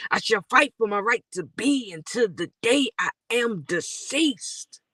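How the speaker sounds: rhythmic, quick spoken-word delivery; spoken-word poem. Acted. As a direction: drive the rhymes forward like a performance poet. Recites spoken-word verse.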